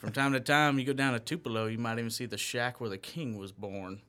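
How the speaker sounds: demonstrating a Memphis-Tupelo Southern accent; Mississippi accent. Shown as a demonstration. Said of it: "Mississippi thing from my Memphis slash Tupelo".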